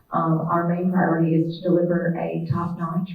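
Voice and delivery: projected teacher voice. Real, not acted. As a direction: project so everyone hears. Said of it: "I can try to project with my teacher voice".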